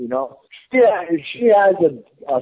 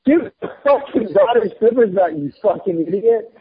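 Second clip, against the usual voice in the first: higher, sharp mock fury; retold telling-off, a touch higher; retold angry retort; 5 semitones higher than usual. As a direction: snap it at her like the furious wife.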